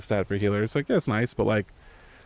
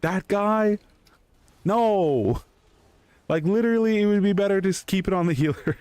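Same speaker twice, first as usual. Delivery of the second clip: high, incensed mock protest; retold outrage; 10 semitones higher than usual. Raiders outraged a weak DPS won the trinket, high protest. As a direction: imitate raiders scoffing at the roll. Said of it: "And people are like".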